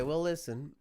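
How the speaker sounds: ordinary delivery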